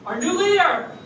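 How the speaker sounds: loud, high rallying shout; acclaiming cry. Acted. Frog hailing the new leader, loud acclaim. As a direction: proclaim it to the crowd.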